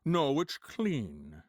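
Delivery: Sean Connery impression. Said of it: "Sean Connery".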